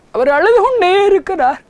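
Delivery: high, loud preaching cry; fervent preacher declaring he weeps on; impassioned cry. Real, not acted. Preacher's emotional climax.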